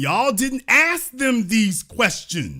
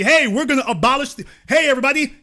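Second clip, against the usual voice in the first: mock campaign pitch; 4 semitones higher than usual. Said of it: "Tell everybody".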